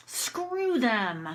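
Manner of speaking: held-back dismissal at everyday volume; demonstrated restrained anger. Shown as a demonstration. Teacher models venting about them, mildly angry. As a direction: let the anger out only a little. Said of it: "I'm just gonna do anger".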